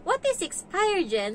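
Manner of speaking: put-on high-pitched puzzled kid; curious child voice, dropping on the name; imitated child's question. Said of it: "So, nagiging dictionary na ako dito".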